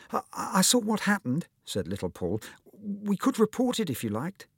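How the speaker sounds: lightly voiced little boy; small boy voice. A narrator's reading. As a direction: play the shy little friend offering help. Little Paul speaks.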